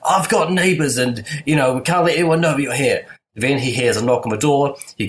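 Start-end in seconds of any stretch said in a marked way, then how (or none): 0.1-3.1 higher-pitched mock scolding, no real volume; mild mock yell, voice raised in pitch; retold shouting. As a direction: imitate someone shouting, half-hearted. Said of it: "he's shouting at Justin Bartha".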